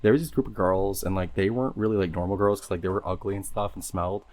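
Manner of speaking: lightly voiced valley girl. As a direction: tell it like a ditzy valley girl. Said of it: "Can you talk in a white girl voice?".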